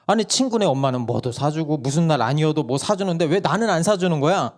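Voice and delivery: 높게 억울함을 토로하는 아이; 친구 엄마와 비교하며 떼쓰듯; 조르는 아이 흉내. Retold or imitated. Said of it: "다시 말하는 거예요". (엄마에게 조르는 막내 목소리)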